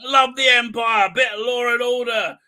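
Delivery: high, loud, slow gung-ho loyalist; hammed-up Empire loyalist, shouting; super Empire-y guy. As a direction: boom it like a cheerful fanatic. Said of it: "this super Empire-y guy".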